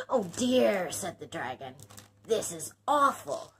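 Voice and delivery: distressed dragon.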